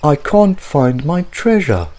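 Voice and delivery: a lightly voiced dim pirate, puzzled; pirate frowning over his lost treasure. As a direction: grumble like a befuddled pirate. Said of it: "he said with a frown".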